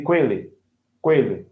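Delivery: "com ele" merged into "kweh-lee"; linked W sound. Shown as a demonstration. Teacher showing learner the cluster, "com ele" as "kwele". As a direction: run "com ele" together with a W glide. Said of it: "um, W".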